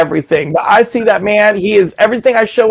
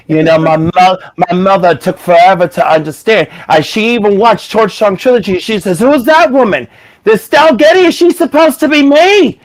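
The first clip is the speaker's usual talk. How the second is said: Harvey Fierstein; 2 semitones higher than usual. Shown as a demonstration. Comic shows off his celebrity impression, talking about his mother. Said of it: "If I wanted to sound like Harvey Fierstein".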